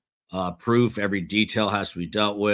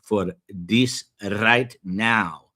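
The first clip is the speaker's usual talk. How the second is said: wife, exasperated, a touch louder and slower; eye-rolling wife; 4 dB louder, slower than usual. Retold or imitated. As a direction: brush off her husband with a sigh in the voice. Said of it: "She rolls her eyes and usually says".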